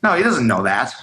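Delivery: understated, matter-of-fact verdict; deadpan serious. Retold or imitated. Bandmate's verdict on the bassist, retold deadpan. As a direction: quote it dead serious, without play. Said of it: "He was dead serious".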